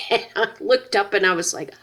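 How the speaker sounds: real laughter through the words; laughing while telling. Real, not acted. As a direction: laugh as you tell it. Recalling embarrassing moment, laughing.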